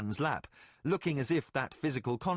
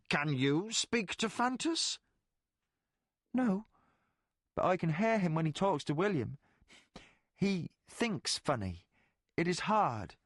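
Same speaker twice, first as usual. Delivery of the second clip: put-on little girl Gamina; 4 semitones higher than usual. Gamina and Colgan exchange.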